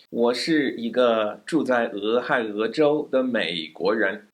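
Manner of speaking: careful Mandarin, tones clear; full sentence demo. Shown as a demonstration. Teacher models the long sentence for students, clear Mandarin. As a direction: deliver the whole line smoothly. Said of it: "the longest one I gave today".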